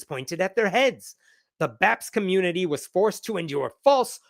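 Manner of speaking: put-on statement read dramatically in a light Indian accent; mock-solemn Indian accent, swinging intonation. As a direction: pretend to be somebody else, with an Indian accent. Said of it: "It is this one if I'm trying to pretend to be somebody else".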